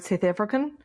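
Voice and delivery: put-on South African accent; brief demo of South African vowels. Shown as a demonstration. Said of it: "in a South African accent".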